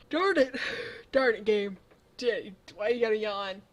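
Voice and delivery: loud, exasperated groan at the game; frustrated outburst. Real, not acted. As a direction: vent real annoyance, loudly. Player annoyed at yawning game.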